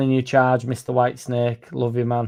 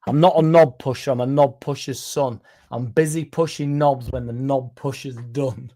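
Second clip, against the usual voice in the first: careful retry. Shown as a demonstration. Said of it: "I'll start again".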